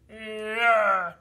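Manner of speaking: high, drawn-out "yeah" noise; imitated motion noise. Showing friends how it moved, high drawn-out noise. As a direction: voice the swerve as a long sound. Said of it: "It's like".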